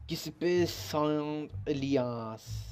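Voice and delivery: name read slowly with a light French tinge; slow, faintly French-sounding name; slight French-ish accent. Real, not acted. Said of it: "with a slight French-ish accent".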